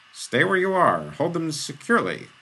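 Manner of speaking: a chamberlain snapping orders at the retreating guards; snapped order. A narrator's reading. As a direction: bark it at the guards like a whip crack. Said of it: "snapped out".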